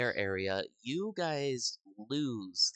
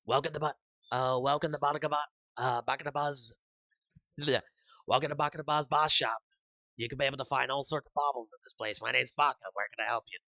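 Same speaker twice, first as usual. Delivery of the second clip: fast, raised shopkeeper pitch over a speaker; intercom announcement; 3 semitones higher, 4 dB louder, faster than usual. Acted. Shop owner greets customers over intercom, brisk and lively. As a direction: rattle it off like a cheerful shop intercom. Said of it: "coming over intercom saying".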